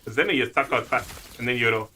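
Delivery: thick Scottish brogue, running words together; chatty Scottish accent, word ends dropped. Shown as a demonstration. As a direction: demonstrate a broad Scots accent. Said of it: "I can go much more of the brogue".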